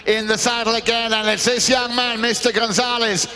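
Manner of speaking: brisk play-by-play to the crowd; live polo commentary. Real, not acted. Commentator introduces the returning players, live play-by-play. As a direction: call the players back into action.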